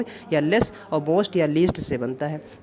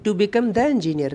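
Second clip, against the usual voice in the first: slow, raised reading of the question; 4 semitones higher, 3 dB louder, much slower than usual. Shown as a demonstration. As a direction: dictate it clearly to the class. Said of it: "fifty टू देखते हैं". (धीरे, ऊँची आवाज़ में पढ़ना)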